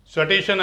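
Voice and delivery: स्टेशन mispronounced as 'sa-tay-shan'; full 'sa' sound. Shown as a demonstration. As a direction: break the cluster in स्टेशन with an a after the s. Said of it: "सा बना के लिखूँगा तो क्या आएगा?".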